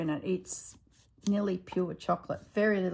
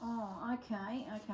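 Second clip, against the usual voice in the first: deflated; 4 semitones higher, 6 dB quieter than usual. Retold or imitated. Husband deflated by refusal.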